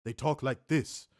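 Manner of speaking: slow, measured mock Samoan cadence; slow, choppy Samoan-style delivery; mock Samoan speech. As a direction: lightly imitate a Samoan elder's speech. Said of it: "they don't talk like that".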